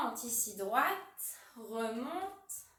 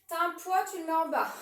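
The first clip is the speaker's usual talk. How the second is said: loud, raised coach voice; 2 semitones higher, 7 dB louder than usual. Real, not acted. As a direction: project it across the gym. Coach calling instructions loudly.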